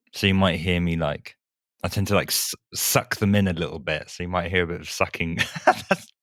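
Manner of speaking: slight lisp from braces; talking through new braces. Real, not acted. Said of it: "you got a slight lisp".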